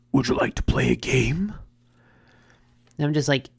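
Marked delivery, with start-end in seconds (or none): 0.1-1.5 sinister whispered movie villain; Jigsaw from Saw. Acted. Brain jumps to the Saw movie, sinister whisper. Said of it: "Ha, Saw".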